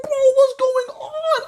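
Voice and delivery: very high, frightened squeak; panicked squeal. Acted. Freaked out by headless friend.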